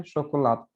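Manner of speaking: शोकोलात said with sh at the start and a clipped final t; शोकोलात, sh first and no final e; teaching a Portuguese word; Portuguese pronunciation. Shown as a demonstration. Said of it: "चॉकलेट को हम क्या बोलते हैं".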